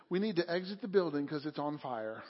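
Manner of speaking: softly mock-calm, unhurried announcement; imitated calm. Manager imitates speaker calmly announcing a bank fire, calm and soft. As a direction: deliver an alarm with no alarm at all. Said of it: "you could just calmly say".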